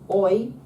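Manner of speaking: OI called out high and loud; modelled diphthong. Shown as a demonstration. Teacher models a Greek sound for the class, clear demonstration. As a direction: model OI as one bold sliding sound.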